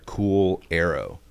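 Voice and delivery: "Cool arrow" slowly as two English words; "Cool arrow", slow, with a gap between the words; two separate words. Shown as a demonstration. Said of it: "like, two different words".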